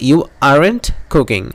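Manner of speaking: very slow, word by word; slow model sentence. Shown as a demonstration. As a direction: spell it out for the class. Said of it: "model sentence drill". (খুব ধীরে, প্রতিটি শব্দ আলাদা করে)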